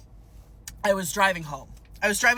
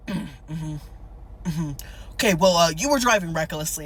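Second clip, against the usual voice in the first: lightly voiced traffic officer; cop impression; 4 semitones lower than usual. Officer answers word-vomiting driver, light cop impression. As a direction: play an awkward cop lightly. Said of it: "my cop impression".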